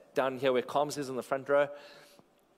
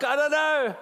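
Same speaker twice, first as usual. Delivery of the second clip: helpless reply; 11 semitones higher, 6 dB louder, slower than usual. Retold or imitated. Answering while crawling in pain.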